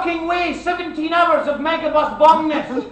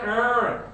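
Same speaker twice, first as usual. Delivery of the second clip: disgusted urgh; 5 semitones lower, 7 dB quieter than usual. Retold or imitated. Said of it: "she went".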